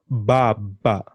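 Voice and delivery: "baba" with open ah vowels, bah-bah; Swahili a vowel. Shown as a demonstration. Teacher modelling Swahili "father" for learner, open vowels. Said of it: "Say that again".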